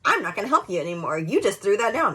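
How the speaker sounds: mild mock snap at a child; retold yelling. Mom walking away from her seven-year-old, mild mock yell. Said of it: "why am I yelling".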